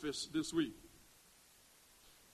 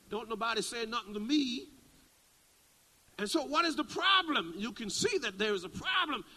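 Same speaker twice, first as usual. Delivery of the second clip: retold irate outburst, pitch climbing much higher and louder; indignant pastor reliving a long wait, rising to a mock-angry cry; getting vexed; 7 semitones higher, 5 dB louder than usual. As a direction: let the irritation boil over into a demand. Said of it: "I'm getting vexed".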